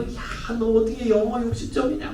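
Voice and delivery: a retold parent's scolding, lightly voiced; hint of a parent telling off a child; mild mock scolding. Parent to child over a bad grade, mild mock scolding. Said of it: "막 혼내".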